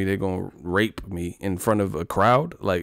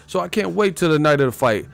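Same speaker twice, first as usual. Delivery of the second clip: opponent impression; 7 semitones higher than usual. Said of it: "The guy was like".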